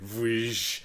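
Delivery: drawn-out lightsaber swoosh sound; slow whoosh. Retold or imitated. Showing how the lightsaber lags, slow imitated whoosh. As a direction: imitate a lagging saber swing. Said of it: "he goes slowly".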